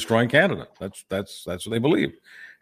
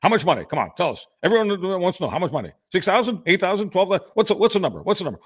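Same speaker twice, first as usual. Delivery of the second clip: mock heckler; 5 semitones higher than usual. Mocking a heckling politician.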